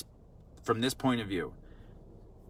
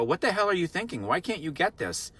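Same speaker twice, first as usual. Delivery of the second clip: quick, higher, exasperated mock scolding of a child; 5 semitones higher than usual. Adult scolding a forgetful five-year-old, mock exasperation. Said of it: "We're not gonna correct them and go".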